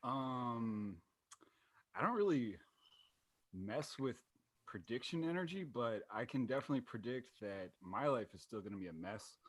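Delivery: faint, distant voice; quiet voice, barely audible. Real, not acted. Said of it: "You sound very quiet".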